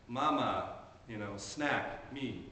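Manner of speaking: imitating a toddler's sweet, slow request; a light hint of a sweet toddler voice; sweet and calm. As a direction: coax it gently like a little girl asking. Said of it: "starts nice and sweet and calm".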